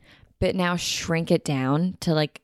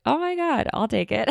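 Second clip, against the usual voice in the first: excited; 6 semitones higher than usual. Retold or imitated. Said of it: "And I was like".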